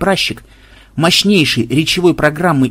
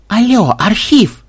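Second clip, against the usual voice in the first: higher, slow calling out; mock call-out; 7 semitones higher, 4 dB louder, slower than usual. A narrator's reading. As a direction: drawl it to wake the bird up. Тычет попугая пальцем. (протяжно зовёт попугая, выше)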